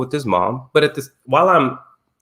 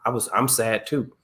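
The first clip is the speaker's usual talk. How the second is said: soft apology; 2 semitones lower, 4 dB quieter than usual. Retold or imitated. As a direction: ease it down like a tender dad. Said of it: "I just had to say".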